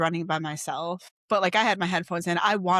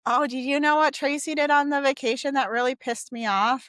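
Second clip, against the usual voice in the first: gossipy; 7 semitones higher, 3 dB louder than usual. Retold or imitated. Imitating gossipy friend after vacation.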